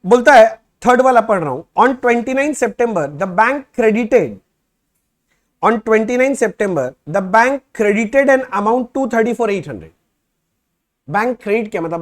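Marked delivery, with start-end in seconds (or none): 1.8-9.9 slow, loud, word-by-word reading of the problem; reading the question aloud. Shown as a demonstration. Teacher reading the problem to students, slow and loud. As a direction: dictate each phrase slowly for the class.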